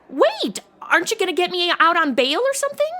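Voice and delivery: high, quick call after him; desperate plea. Acted. Jailed woman calling after the departing detective, high and rushed. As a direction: stop him before he goes. Detective leaving her in jail.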